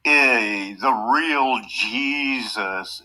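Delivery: a hint of a goofy childish puppet; lightly voiced silly puppet. Host mocks puppet's childish voice, lightly done. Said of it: "Why you doing these childish voices?".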